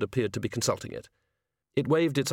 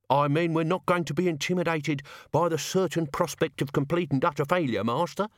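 put-on gruff old servant; 6 semitones higher than usual. The sacks speak.

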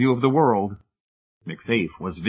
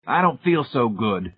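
slow, ringing godlike boom; 3 semitones higher than usual. Acted. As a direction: boom it out like a god feeling sick. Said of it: "MacFaith boomed in ringing, godlike tones".

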